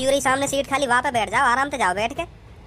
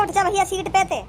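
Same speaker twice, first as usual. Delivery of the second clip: mocking quote; 6 semitones higher than usual. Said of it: "तुमने कह दी ना".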